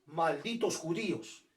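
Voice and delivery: slow, lightly voiced dictator snarl; a hint of a ranting dictator, drawn out; mock Hitler. Teacher voicing Hitler's hatred for his class, slow mock rant. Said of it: "Y decía".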